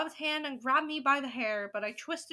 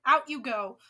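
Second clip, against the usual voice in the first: louder, dismissive order; acted shout; 7 dB louder than usual. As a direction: send them out with a firm raised voice. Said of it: "she shouted".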